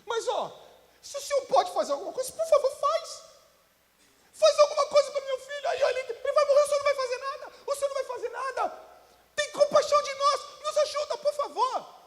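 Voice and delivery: a father begging Jesus to save his son; desperate father. Retold or imitated. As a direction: beg for the son in a high voice. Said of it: "o que que o pai fala assim".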